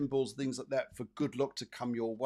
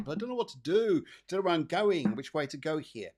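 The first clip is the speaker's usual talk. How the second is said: confused inner voice; 3 semitones higher, 3 dB louder than usual. Pretend. Cards voicing the viewer's doubt.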